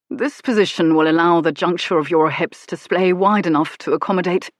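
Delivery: lightly voiced earnest gentleman; a hint of a bookish lover; earnest scholarly man. Hero speaks, precise and earnest.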